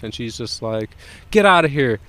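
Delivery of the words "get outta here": mock angry boss yell. Boss yelling in retold quarrel.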